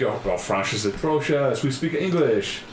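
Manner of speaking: exaggerated, drawn-out French accent; mocking French accent. Locals answering a visitor who speaks French, mock French accent. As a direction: make fun of French as you speak. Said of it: "that's what the French sound like".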